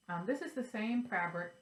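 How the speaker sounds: talking with hair stuck in mouth; cat hair in mouth. Real, not acted. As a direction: speak round something in the mouth. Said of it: "I just got cat hair in my mouth".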